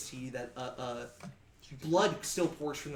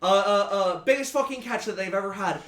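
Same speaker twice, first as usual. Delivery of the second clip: put-on higher, louder hurried sailor accent; flustered sea captain; 4 semitones higher, 7 dB louder than usual. Captain explaining the gift to the party, high loud sailor accent. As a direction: catch yourself and explain in a rush. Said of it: "stops and goes".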